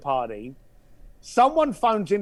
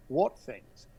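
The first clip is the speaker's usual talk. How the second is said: softer and lower, a calm probe; 7 semitones lower, 6 dB quieter than usual. Retold or imitated. Asking the caller to open up, lowered voice. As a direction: drop the voice down a notch. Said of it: "And I lowered my voice".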